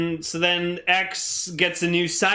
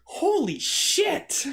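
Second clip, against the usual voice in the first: excited shout; 13 semitones higher, much slower than usual. Acted. Excited shout after minigun.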